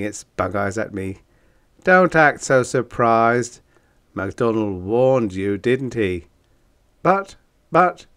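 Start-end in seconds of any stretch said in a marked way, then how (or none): 1.8-6.3 loud, gruff storybook monster. Acted. Monbeast voiced in story. 7.0-8.1 high, loud startled stammer; stammering fright. Acted. Narrator stammers in shock.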